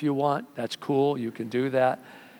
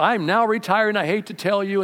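quitting fighter; 5 semitones higher, 3 dB louder than usual. Retold or imitated.

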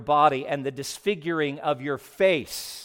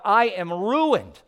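Isaiah's ruin, voiced higher and louder; a raised, stricken lament; anguished cry; 6 semitones higher, 5 dB louder than usual. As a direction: cry it out as a man undone before the holy God. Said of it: "cried out".

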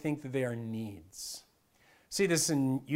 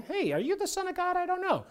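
much higher, puzzled, unsure asking; genuinely wondering devil; 13 semitones higher than usual. Retold or imitated. Devil honestly wondering if Jesus is God's Son, high and puzzled. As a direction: ask it as if truly not knowing. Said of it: "not like the devil was wondering".

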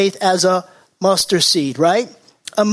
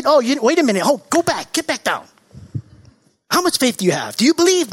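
higher voice, hammed-up doubtful questioning; mock questioning Jesus; 5 semitones higher, faster than usual. Preacher mocking a Jesus who demands faith, hammed-up. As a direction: lightly play a fussy Jesus stopping the healed man. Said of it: "Did Jesus say".

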